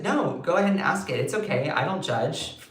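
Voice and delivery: gently, quietly reassuring. Retold or imitated. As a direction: put a nervous friend at ease. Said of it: "I said".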